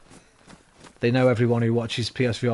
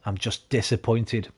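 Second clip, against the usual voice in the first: disappointed parent; 3 semitones lower, slower than usual. Retold or imitated. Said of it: "and they say".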